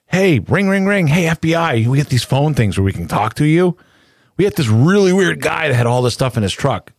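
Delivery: high, bright phone caller; cheerful caller voice. Pretend. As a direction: call the FBI cheerfully. Voicing an imagined phone call.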